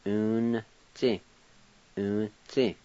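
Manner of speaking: "Un-chi" opening on a clear U; U sound. Shown as a demonstration. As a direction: say "Un-chi" starting with U. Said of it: "pronounced with a U sound".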